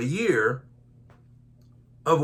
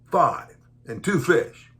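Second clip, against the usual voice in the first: slow, sulky "Five and two fish"; grudging mumble; slower than usual. Shown as a demonstration. Preacher showing the disciples' sulky reply, slow and grudging. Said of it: "you need to say it like that".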